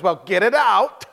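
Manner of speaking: drawn-out grudging challenge, rising on OUT; mild retold sneer. Unwilling lady to young evangelist at her door, mild sneer. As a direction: imitate a slightly sneering lady, slowly. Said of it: "kinda sneered a little bit".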